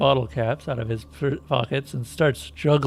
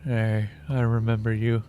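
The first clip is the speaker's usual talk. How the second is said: boring monotone voice; 3 semitones lower than usual. Acted. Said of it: "He starts in a boring, monotone voice".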